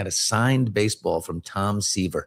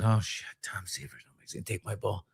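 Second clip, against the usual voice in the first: scared mutter; 3 semitones lower, 10 dB quieter than usual. Retold or imitated. Kid's scared inner thought.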